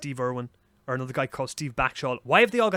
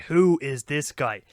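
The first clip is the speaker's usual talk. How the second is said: amazed; 4 dB louder, slower than usual. Retold or imitated. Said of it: "I was like".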